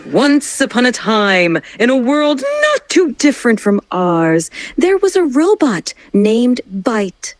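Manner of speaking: over-the-top dramatic storytelling; milk every word for drama; maximal drama. Shown as a demonstration. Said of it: "want maximal emotion".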